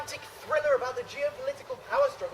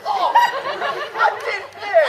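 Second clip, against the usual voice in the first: laughing; 11 semitones higher, 6 dB louder, much slower than usual. Acted. Mock duel cries, laughing.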